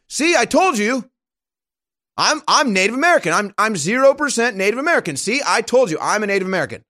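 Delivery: high, quick insistent mock voice; a hint of a smug politician; mocking Elizabeth Warren. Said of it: "I'm Elizabeth Warren".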